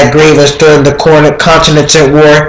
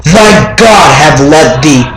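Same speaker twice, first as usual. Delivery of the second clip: rising desperate cry, pitch climbing higher; 4 semitones higher than usual. Acted. The narrator cries out to the raven for forgetting, climbing higher. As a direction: plead with the raven, voice climbing as you go. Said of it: "I cried".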